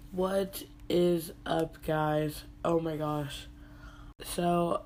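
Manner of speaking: stuffy congested voice, sick with bronchitis. Real, not acted. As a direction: talk through a congested chest cold. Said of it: "I am very congested".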